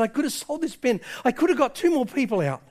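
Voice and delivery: high-pitched retold regret; acted anguish without real tears; breaking down. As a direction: reproach yourself, voice lifted. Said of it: "he's starting to break down".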